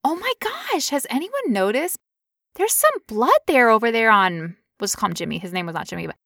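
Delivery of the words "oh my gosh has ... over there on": mock calm. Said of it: "I very calmly said".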